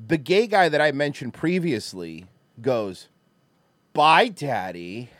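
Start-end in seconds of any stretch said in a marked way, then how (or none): 3.9-5.1 flirty bye daddy. Retold or imitated. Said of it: "like that".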